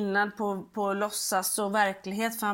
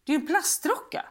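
put-on know-it-all child; 2 semitones higher than usual. Son telling mum the ray is plastic, patient. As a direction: lightly voice a boy correcting his mum. Voicing son Pelle explaining.

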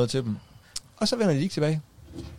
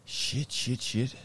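hushed curse; 3 semitones higher, 7 dB quieter, much slower than usual. Real, not acted. Muttered reaction.

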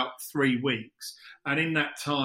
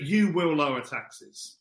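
slow, heavy fake Russian threat; slow mock Russian accent; much slower than usual. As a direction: play a cartoon Russian villain, lightly. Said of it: "Can you do a Russian accent".

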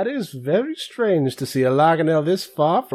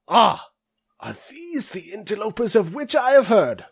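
put-on high, stuffy old scholar voice; old orc dean; 10 semitones higher than usual. Old orc dean eyeing interlopers, stuffy high voice. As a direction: peer down through spectacles at them.

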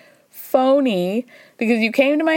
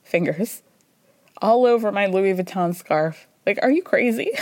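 mock inner plea; 4 semitones lower than usual. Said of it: "Mary's just, like, dying inside".

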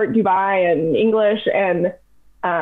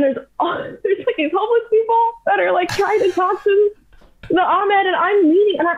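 laughing while talking; 11 semitones higher than usual. Real, not acted. Laughing while telling the story.

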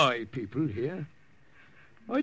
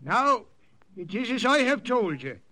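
higher voice projected to a crowd; addressing the crowd; 7 semitones higher than usual. Acted. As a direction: speak up so all the warriors hear. Priest addressing assembled warriors.

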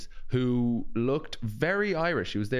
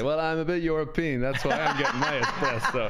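mock self quote; 5 semitones higher than usual. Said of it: "that's what I say".

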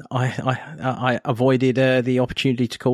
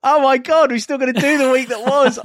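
surprised; 11 semitones higher, 4 dB louder than usual. Real, not acted. Host just remembered the segment.

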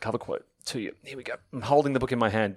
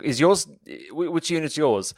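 mildly angry, higher-pitched retold question; retold angry courier; 4 semitones higher than usual. Podcaster imitating a delivery courier demanding the unit, mildly angry. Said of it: "courier came up looking angry".

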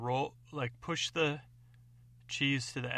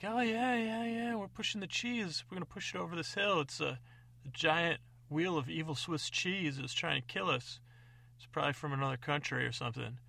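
higher, quick eager voice; the adventurers; 4 semitones higher than usual. Acted. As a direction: blurt it out to the stranger. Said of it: "They're like".

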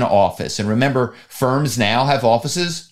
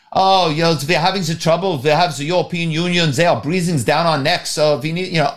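put-on German accent; 2 semitones higher than usual. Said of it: "put on a German accent".

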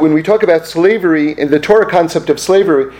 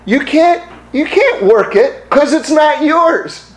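voice of God; 8 semitones higher than usual. Retold or imitated.

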